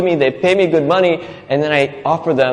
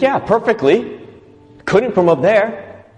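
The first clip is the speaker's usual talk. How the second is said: sheepish student; 8 semitones higher, slower than usual. Retold or imitated. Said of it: "He's like".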